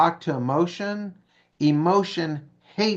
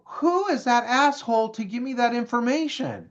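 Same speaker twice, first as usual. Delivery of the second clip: indignant grumble; 6 semitones higher than usual. Retold or imitated. Friend storms out annoyed.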